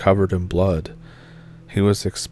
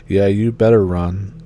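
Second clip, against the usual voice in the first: raised-voice taunt, louder than the narration; mock taunting yell; 6 dB louder than usual. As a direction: call it out after someone fleeing. Friend calls out after gunshots.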